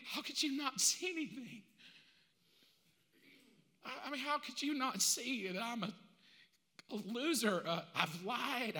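soft, halting, desperate admission; begging to be seen as guilty, quietly; pleading confession. Acted. Mark pleads with God about his sins, soft and anxious.

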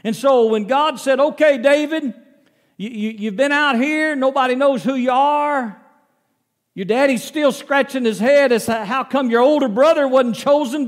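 loud, high, fervent sermon delivery; preaching at full force. Acted. Pastor booming God's words to David, at full force. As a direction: preach it out big, like the pulpit's on fire.

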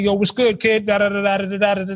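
casual street slang reply; African American accent. Retold or imitated. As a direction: answer your buddy in slang. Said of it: "you just code switch".

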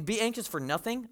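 quoting it back with a doubtful rise; as if Paul has lost touch with reality; mildly scoffing question; mock disbelief. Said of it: "Paul, you don't get it, man".

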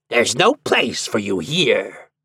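slow, devilish rejection in a put-on voice; drawn-out, forceful devil voice; shouted dismissal. A narrator's reading. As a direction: send them packing as prince of hell. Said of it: "shouted the prince of hell".

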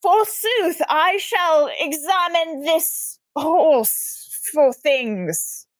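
lightly hammed Shakespearean knight; a hint of old-timey grandeur; hammy stage actor. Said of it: "And I say".

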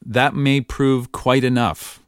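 slow, measured book reading; reading aloud. Shown as a demonstration. Reading a Sherlock Holmes line aloud, slow and measured. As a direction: read the line slowly off the page. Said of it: "I need some lyrics".

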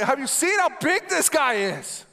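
mock-panicked cry to the others; panicked yelling. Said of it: "they're yelling at them".

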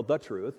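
"the" in "the truth" lightly weighted, falling; stress on the. Shown as a demonstration. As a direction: lean on "the" in "the truth". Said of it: "Notice the definite article".

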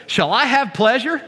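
quoted incredulous question. Retold or imitated. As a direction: draw out Sarah's doubtful question. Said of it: "She actually says it like this".

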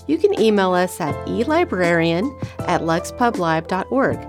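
announcer-style sign-off read over music; podcast outro. Acted. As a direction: read it like a show closing.

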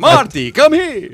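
high, very loud holler; crazy old man's shrieked summons; yelling Doc Brown. Acted. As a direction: yell for the boy urgently. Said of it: "yells everything".

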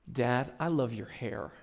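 light imitation of a drowsy three-year-old; hint of a sleepy child voice, a laugh in it; sleepy toddler. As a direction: voice a sleepy little boy, softly amused. Sleepy toddler's reply retold.

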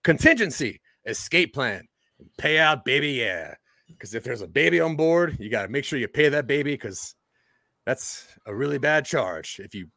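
a put-on, hammy Cockney accent; weird Cockney accent. Class presenter to classmates, in a weird Cockney accent. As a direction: lean into a wobbly fake Cockney accent. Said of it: "like, a weird Cockney one".

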